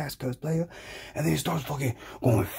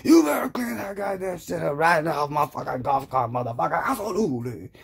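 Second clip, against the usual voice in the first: higher-pitched acted scolding; pissed-off billionaire; 4 semitones higher than usual. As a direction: order him about, mock-angry. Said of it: "The billionaire was fucking pissed".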